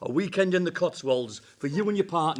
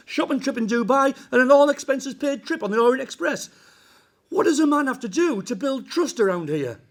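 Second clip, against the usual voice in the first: rising loud exasperation; exasperated pleading; 4 semitones higher, 5 dB louder than usual. Acted. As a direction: build louder through the list. Exasperated list of failed bribes.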